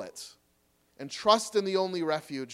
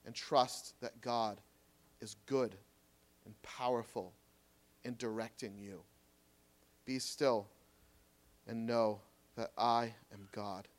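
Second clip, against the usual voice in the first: fading to a hush; 6 semitones lower, 6 dB quieter than usual. Acted. Preacher calming the church to stillness, fading hush. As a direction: let the voice sink away into stillness.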